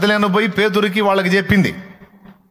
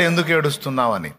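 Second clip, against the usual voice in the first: the Lord asking gently, lower and softer; 4 semitones lower, 4 dB quieter than usual. Retold or imitated. Preacher voicing the Lord asking Mary why she weeps, lower and softer. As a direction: ask it low and soft, the way the Lord would. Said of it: "బయట ప్రభు అడిగాడు".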